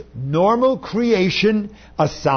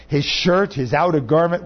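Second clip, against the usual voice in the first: usual speaking voice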